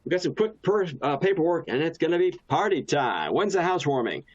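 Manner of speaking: high, bubbly and upbeat; bubbly party pitch. Shown as a demonstration. Agent wrapping up a house sale, high and bubbly. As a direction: sell it like a party. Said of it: "will say something like".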